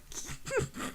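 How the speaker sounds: soft, breath-only titter; mock flirty giggle.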